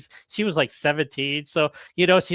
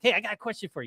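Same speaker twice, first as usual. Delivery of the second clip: sarcastic; 5 semitones higher, 3 dB quieter, much faster than usual. Retold or imitated. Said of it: "so I'm being sarcastic at this point".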